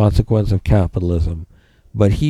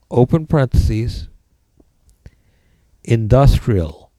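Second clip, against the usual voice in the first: dictating. Shown as a demonstration. Dictating notes to the class.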